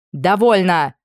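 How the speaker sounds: commanding shout. Acted. Anna halts the brawl.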